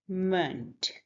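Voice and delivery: "meant" said as "munt", with a schwa; schwa vowel. Shown as a demonstration. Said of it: "schwa sound, which is like a".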